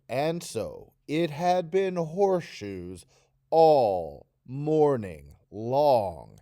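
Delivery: slow, drawn-out bored reading. Shown as a demonstration. Teacher demonstrating a bored Taryn for students. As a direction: drag it out as if endlessly bored. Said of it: "I want this to sound like he's very bored".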